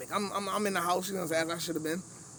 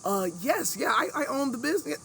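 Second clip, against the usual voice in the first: white voice; 7 semitones higher than usual. Retold or imitated. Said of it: "The next words that came out of my mouth".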